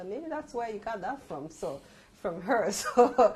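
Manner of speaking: laughing through words, very loud and slow. Speaker recalls telling their mother where she got her neatness, laughing.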